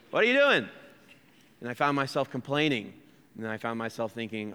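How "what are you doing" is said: high, loud mock road-rage protest; exasperated driver's yell. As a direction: cry out in indignant disbelief, playing it up. Acted complaint at slow driver.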